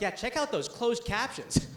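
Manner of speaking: slow, leering appreciation of captions; a hint of leering admiration; mock admiring. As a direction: savour it like checking out a hot girl.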